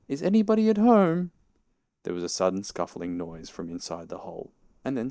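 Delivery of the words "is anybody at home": high, loud sustained call. A narrator's reading. Pooh calling down the rabbit hole, calling out. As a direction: holler it high, stretching out the last word. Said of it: "and called out".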